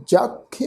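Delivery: ਜਖ with a short "i-a" glide after "kh"; sihari plus aira. Shown as a demonstration. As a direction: say ਜਖ as "jakhia", glide kept short. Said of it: "ਖੱਖੇ ਨੂੰ ਸਿਹਾਰੀ ਦੀ ਮਾਤਰਾ". (ਜਖ ਵਿੱਚ ਖੱਖੇ ਨੂੰ ਸਿਹਾਰੀ, ਫਿਰ ਐੜਾ)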